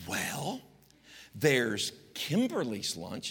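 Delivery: sweet mom. Retold or imitated. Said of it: "this is how she spoke to me".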